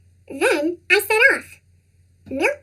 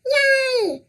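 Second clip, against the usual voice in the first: excited cheer; 6 semitones higher than usual. Acted. Kids cheering school closed.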